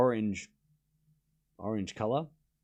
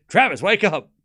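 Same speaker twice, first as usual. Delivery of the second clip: laughing call-out; 2 semitones higher, 4 dB louder than usual. Real, not acted. Laughing as he calls out to his friend Travis. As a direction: tease him through a laugh.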